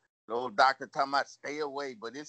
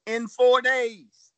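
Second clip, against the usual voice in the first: slow, emphatic announcement; 3 semitones higher than usual. Real, not acted. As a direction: spell out the big number slowly. Announces number of donors slowly.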